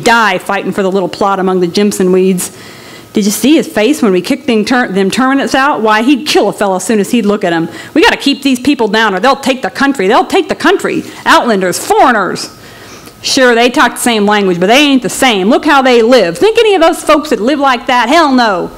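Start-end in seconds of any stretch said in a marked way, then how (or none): 3.1-12.5 lightly voiced lawman, gloating; a deputy mocking the migrants; sneering deputy. 13.2-18.7 lightly voiced lawman, contemptuous; looking down on the Okies; scornful deputy. Deputies sneering at migrants.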